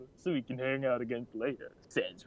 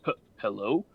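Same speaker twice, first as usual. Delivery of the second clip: super awkward voice; 3 dB louder than usual. Acted. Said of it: "super awkward talking voice".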